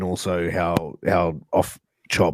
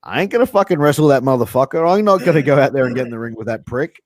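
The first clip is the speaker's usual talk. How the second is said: higher, louder and fast indignant rant; mock angry refusal; 5 semitones higher, 4 dB louder, faster than usual. Host voicing wrestler refusing impaired opponent, fast and heated. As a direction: fire it off like a fed-up wrestler.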